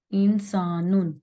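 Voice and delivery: "इंसानुन" slowly, with the saa held two counts; long saa. Shown as a demonstration. Teacher showing the two-count alif after seen, drawn out. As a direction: stretch the middle vowel of "इंसानुन". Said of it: "सीन को हमने दो हरकत लंबा करना है".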